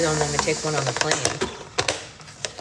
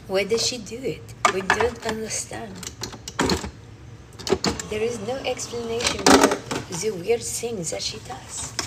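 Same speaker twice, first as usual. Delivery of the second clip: mock puzzled observer; 4 semitones higher than usual. Narrates own oddities in third person.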